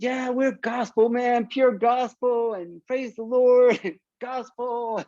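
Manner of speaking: half-laughing holy-roller pitch; mock preachy. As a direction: ham up the praise the Lord. Hamming up the gospel pitch.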